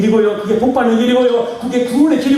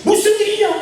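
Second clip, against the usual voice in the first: God answering kindly; 13 semitones higher than usual. Pretend.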